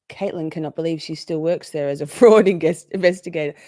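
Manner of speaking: reading the chat with a laugh breaking in; laughing through it. Real, not acted. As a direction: giggle mid-sentence on "fraud". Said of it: "Okay, so Caitlin, full stop".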